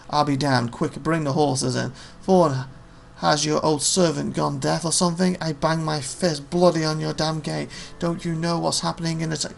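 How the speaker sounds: rough soldier calling out at the gate; lightly voiced angry guard captain; gruff captain. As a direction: bark it like a fed-up captain.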